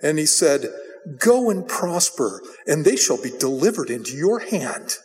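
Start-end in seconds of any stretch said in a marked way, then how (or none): 1.2-5.0 sarcastic. Acted. Prophet humoring the king with false encouragement, sarcastic. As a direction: say it with veiled sarcasm. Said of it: "said it in a sarcastic tone of voice".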